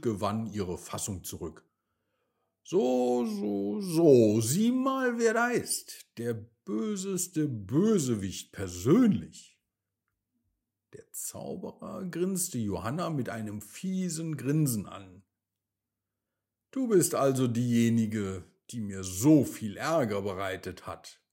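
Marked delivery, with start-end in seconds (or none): 2.6-9.6 high, loud mocking greeting; sarcastic. Johanna mockingly greets the wizard. 16.7-21.2 loud, menacing wizard; villain voice. Acted. Wizard confronts Johanna.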